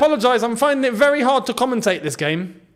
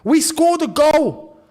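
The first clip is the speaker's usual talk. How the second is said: amazed disbelief; 7 semitones higher, slower than usual. Real, not acted. Disbelief at first goal.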